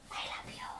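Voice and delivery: whispered aside, no voice at all. Real, not acted. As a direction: breathe it out in a whisper. (pabulong na sinabi)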